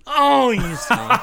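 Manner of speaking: slow, laughing groan of disbelief. Real, not acted. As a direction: laugh through it, caught out. Friend's trick answer revealed.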